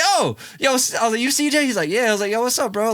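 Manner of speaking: high, loud eager hello; pumped-up high greeting; excited greeting. Retold or imitated. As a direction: greet him like you're starstruck. Greeting the new kid eagerly.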